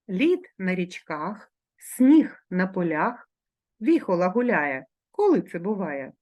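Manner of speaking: put-on slow, measured riddle read to children. Teacher reads a season riddle to her class, slow and rhythmic. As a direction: let each line land slowly, like a rhyme.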